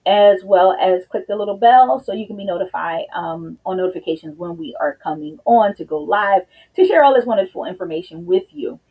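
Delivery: slightly winded, catching breath; talking while out of breath. Real, not acted. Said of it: "of course, I'm out of breath".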